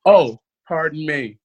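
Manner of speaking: mock sweet apology with a sting at the end; polite, then snap the last word; lightly voiced Texan girl, sweet then rude; Texan comeback. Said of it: "she said".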